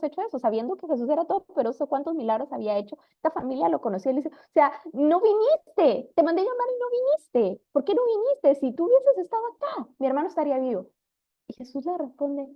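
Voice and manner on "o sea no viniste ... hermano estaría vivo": high, pleading complaint that breaks upward; grieving sister confronting Jesus, high anguished reproach. Retold or imitated. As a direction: demand to know why he didn't come, voice climbing high. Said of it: "con un reclamo en su angustia".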